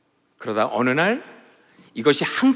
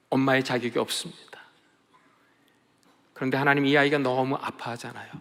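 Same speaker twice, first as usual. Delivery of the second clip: weeping prayer. Retold or imitated. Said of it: "흐느끼며 울며 기도하는데".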